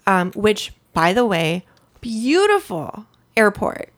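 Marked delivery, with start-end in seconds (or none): 2.0-3.9 slow, savoring "beautiful airport" with a lingering "beautiful"; drawn-out admiring, as if picturing it; dreamy praise. Real, not acted. Traveler recalling the Amsterdam airport, slow dreamy praise.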